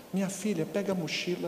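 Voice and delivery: imitated soft, low-voiced tone. Acting out a mother asking her daughter for the backpack, imitating mom speaking quietly. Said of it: "A senhora perdeu a voz?".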